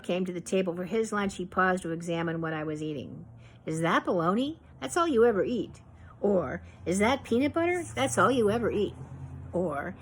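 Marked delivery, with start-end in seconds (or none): 3.6-5.8 mocking grandfather. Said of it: "he would laugh so hard". 6.8-9.0 mocking grandfather. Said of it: "he would laugh so hard".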